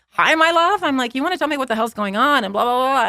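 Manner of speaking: high-pitched retold tirade, not shouted; acted-out furious greeting spilling into a rant; mild mock screaming. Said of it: "I'm screaming nonstop".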